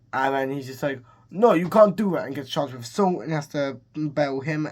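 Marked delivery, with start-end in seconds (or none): 1.3-2.3 louder, higher mock objection; mock protest. Man fighting the sign installers, mock protesting. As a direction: act out an indignant protest, raised voice.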